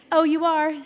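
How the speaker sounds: high, loud pleased surprise; proud surprise. Retold or imitated. Teller flattered by new lady, high proud surprise. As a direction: puff up with pride. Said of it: "felt this little puff of pride".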